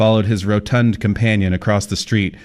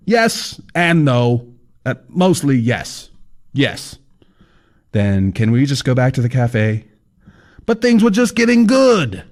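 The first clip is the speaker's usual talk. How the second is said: high, breezy know-it-all guide; fat man's voice; 5 semitones higher than usual. Acted. Fat man explaining to Kyle, high cheery voice. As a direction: lecture the writer like it's obvious.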